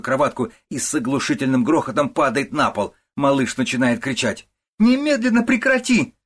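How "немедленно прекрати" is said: very high, loud, piercing command; mother shrieks while the baby cries; furious shriek. A narrator's reading. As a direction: scream at her to stop, eyes blazing. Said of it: "вскрикивает ягнёнок и с горящими глазами".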